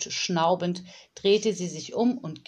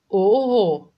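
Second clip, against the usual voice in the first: emphatic oho; 2 semitones higher, 10 dB louder than usual. Acted. Nanny's emphatic interjection.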